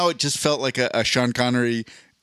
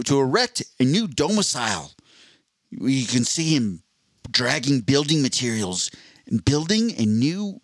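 Steve Irwin. Acted. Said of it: "so far away from the Australian accent".

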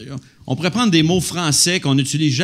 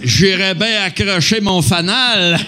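put-on slow, louder old-man drawl; old-timer voice; 3 semitones higher, 3 dB louder, slower than usual. Comics riffing on grandpa sayings, slow old-man voice. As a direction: savour the old expression like a grandpa. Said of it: "pour sonner comme un vieillard".

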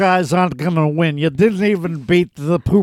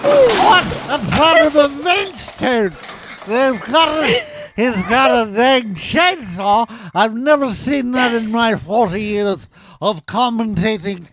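excited high sportscaster voice; game show announcer; 4 semitones higher than usual. Pretend. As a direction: hype it up like a TV commentator. Toy game show commentator.

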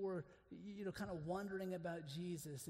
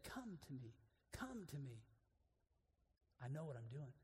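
soft reassurance; 5 semitones lower, 7 dB quieter than usual. Acted. Jesus voiced softly.

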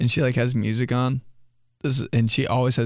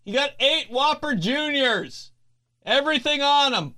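mock employee repeating the order; gossiping employee voice; 14 semitones higher than usual. Employees gossiping about dad's order, high mocking voice. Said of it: "They're like".

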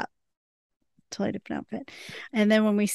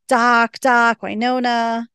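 drawn-out retold calling, a bit louder; mock yell; 2 semitones higher, 4 dB louder, slower than usual. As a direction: imitate calling out for someone, half-hearted. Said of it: "Waverly's yelling".

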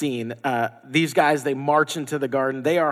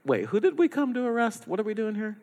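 confused soldier; 8 semitones higher, 4 dB quieter, faster than usual. Pretend. Soldiers' confused reaction voiced.

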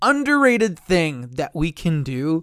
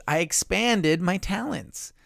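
slow, careful stress on expanded; expanded said slowly and deliberately; corrected word stressed; 3 semitones higher, 3 dB quieter, slower than usual. Shown as a demonstration. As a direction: leans on expanded as the right word. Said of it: "There we go. I know words".

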